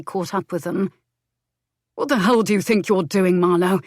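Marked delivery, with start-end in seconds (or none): 1.9-3.8 angry, loud challenge to a rival; husband confronting his rival, loud and angry; growled. Acted. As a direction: bark it out as a furious husband. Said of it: "Leo growled".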